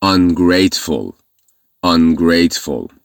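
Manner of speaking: Ungrateful said slowly, syllable by syllable; teacher modelling Ungrateful; slow model word. Shown as a demonstration.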